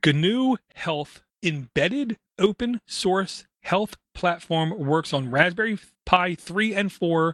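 slow, deliberate reading, carefully paced word by word. Reading aloud from an article they had to reread three times, slow and deliberate. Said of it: "I gotta say this slow".

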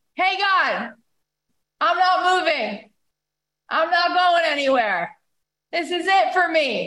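mild put-on outcry, rising high in pitch. Acting out a street guitarist calling up to God at night, imitating someone screaming. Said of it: "He's screaming it".

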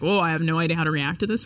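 ordinary talk

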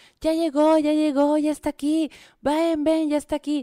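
high, loud, excited shout. Retelling a story, acting out the father shouting to his wife. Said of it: "solo empieza a gritar".

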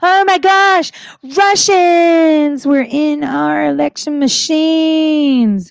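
very slow, stretched-out, high-pitched scream. Retelling how the secretary reacted to the caught intruders: imitating someone screaming. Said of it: "he came out screaming".

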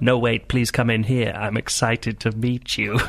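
eerie, haunting, spooky ghostly voice. Storyteller voicing a voice from a bathroom calling her and her sister in, in a ghost voice. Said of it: "don't interrupt the ghost voice".

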